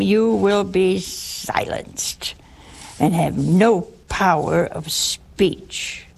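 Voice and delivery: slow, hushed whispered verdict; stern angel's decree. Retold or imitated. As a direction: pronounce the sentence slowly in a whisper. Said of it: "give it to him, Gabriel".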